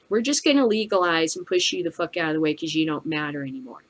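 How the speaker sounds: normal talking voice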